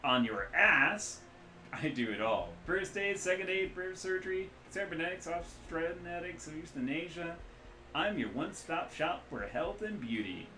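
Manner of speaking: loud, high, boisterous mechanic-doctor voice; hungover rigger. Acted. The rigger doctor jokes to the runners, loud and jolly. Ambrose lists services.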